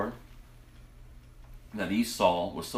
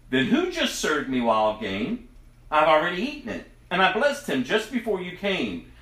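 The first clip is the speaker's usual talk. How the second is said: put-on higher, louder, shaken old father; trembling old father; 6 semitones higher, 3 dB louder than usual. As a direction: realise the trick in mild alarm. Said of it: "began to tremble uncontrollably".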